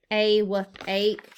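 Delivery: "Awake" said "ay-wake" with long A; mock puzzled ay-wake; wrong pronunciation. Shown as a demonstration. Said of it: "awake is not a word".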